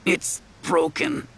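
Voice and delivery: slow pained whisper. A narrator's reading. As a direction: breathe it out hurting. Injured boy voiced.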